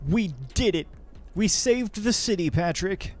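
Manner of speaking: put-on Australian accent rising into a loud cheer; hammed-up Australian, celebrating the city's rescue; mock Australian accent. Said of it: "my Australian accent is offensive".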